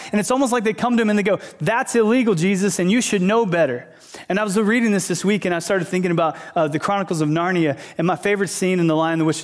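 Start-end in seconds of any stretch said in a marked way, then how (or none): 1.6-3.9 mildly angry, higher-pitched scolding; mock indignation, raised pitch easing down; indignant Pharisees. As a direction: imitate an offended religious official telling someone off. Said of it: "the Pharisees get mad".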